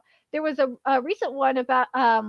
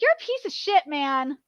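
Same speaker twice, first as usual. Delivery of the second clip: angry. Real, not acted. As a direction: spit out the insult. Ranting at localizer.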